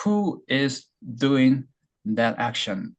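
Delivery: Who is doing 아주 길게 늘여서; 한 단어씩 천천히 늘여 읽기; very slow. Shown as a demonstration. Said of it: "일 번 자리는". (주어 자리 보여주며 아주 천천히)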